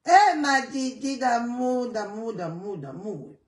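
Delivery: ma Didi d'amour sung out and fading; affectionate calling out. Real, not acted. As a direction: call her fondly, then let the repeats die away. Greeting a viewer on live.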